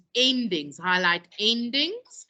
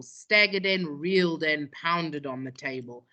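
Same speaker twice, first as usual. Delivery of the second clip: rhythmic recital; 2 semitones lower than usual. Shown as a demonstration. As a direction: pound out the rhythm like a drum. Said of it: "Can you hear the rhythm".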